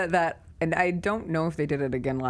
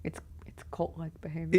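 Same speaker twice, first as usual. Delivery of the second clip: hushed conspiratorial whisper; 7 dB quieter than usual. Real, not acted. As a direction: whisper it like a secret. Conspiratorial aside about crowd.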